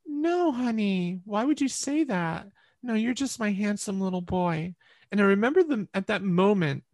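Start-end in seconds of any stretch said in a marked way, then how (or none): 0.1-4.7 tender mom. Retold or imitated. Mother tells her son he's her handsome boy, higher and tender. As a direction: soothe a confused little boy.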